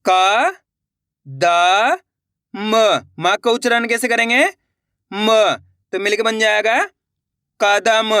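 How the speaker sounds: क, द, म sounded one by one with pauses, then कदम; slow letter-by-letter reading. Shown as a demonstration. Teacher reading along with students, slow and separate. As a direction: spell it out slowly and blend into कदम. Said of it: "एक बार फिर से देखिए".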